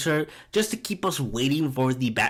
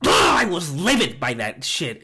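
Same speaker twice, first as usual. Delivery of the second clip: real shout of frustration, louder; angry outburst; 3 dB louder than usual. Real, not acted. Fuming at Oz's ending to viewers, shouting. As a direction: let the anger boil over. Ranting about Oz's betrayal.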